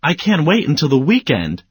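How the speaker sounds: over-the-top eager exclaim; very excited. Shown as a demonstration. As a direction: burst out like five exclamation points. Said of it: "five exclamation points".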